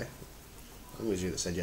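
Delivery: talking between sips; speaking with glass at lips. Real, not acted. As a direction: voice into drinking glass. Seen 0: Raises tumbler to lips while talking, lowers by 1.8s.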